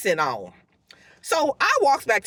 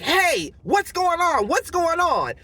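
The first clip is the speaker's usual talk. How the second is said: higher-pitched imitation of a manager calling out; alarmed manager; 7 semitones higher, slower than usual. Manager running out to the commotion, mildly alarmed. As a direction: lightly mimic a boss rushing in.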